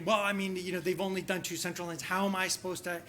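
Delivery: mock put-down. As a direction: play a mildly exasperated colleague belittling someone. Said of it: "that put down in front of the crowd".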